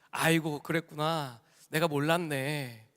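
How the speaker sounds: lazy, slowing mock-casual reply; unbothered. Jesus lying watching TV answers the rich man, unbothered. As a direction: imitate someone idly answering from the couch. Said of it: "누워서 티비를 보시다가".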